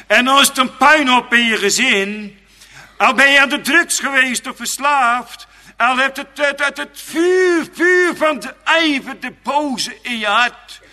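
very high, loud fiery preaching; preaching at full force. Acted. Preacher describing ruined lives to the congregation, high and loud. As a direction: thunder against sin and Satan.

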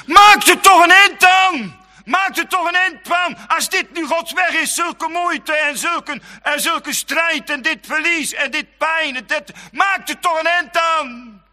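high, loud desperate shout; Job's wife crying out. Acted. Job's wife urging him to give up, high loud shout. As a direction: yell in bitter despair. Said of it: "Jobs vrouw".

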